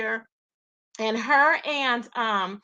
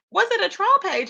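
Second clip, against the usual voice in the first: higher questioning "Was it a troll page?"; high doubtful repeat; 9 semitones higher, 4 dB louder than usual. Retold or imitated. Host repeating her doubt to chat, higher pitch. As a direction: ask it again, doubtful.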